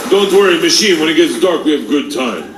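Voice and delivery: hint of a mobster with Russian accent; lightly voiced Russian gangster. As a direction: reassure your buddy like a Russian gangster. Voices Igor reassuring his friend.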